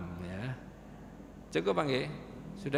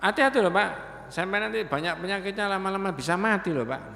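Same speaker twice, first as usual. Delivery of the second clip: lightly mocking youth's warning; cheeky young man; 6 semitones higher than usual. Young man teases the old man about illness, cheeky and light. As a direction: needle him with a half-teasing warning. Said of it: "Anak ini tambah dodro".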